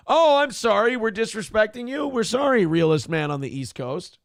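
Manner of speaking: high, mocking fake apology; sarcastic apology. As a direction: grovel with heavy sarcasm.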